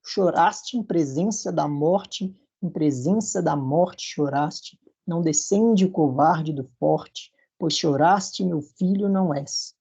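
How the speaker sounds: slow scansion, strong syllables stressed; verse read with stresses. Shown as a demonstration. Teacher reading the verse slowly so students hear accents. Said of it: "percebam onde estão os acentos".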